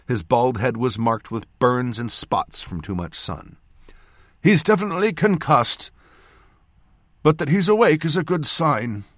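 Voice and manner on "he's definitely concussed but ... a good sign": lightly voiced old man, pitched up; a touch of loud, confident reassurance; reassuring old surgeon. A narrator's reading. Surgeon reporting on a concussed patient, mildly reassuring. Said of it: "Oler said reassuringly".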